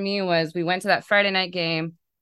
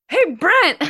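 higher, louder call down to the bullpen; retold yell; 13 semitones higher, 8 dB louder than usual. Fan yelling down to the bullpen player, loud call. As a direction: shout across the stadium at a player. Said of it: "I yelled".

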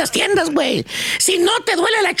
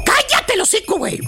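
angry shout. Acted. Yelling at S1 to shut up.

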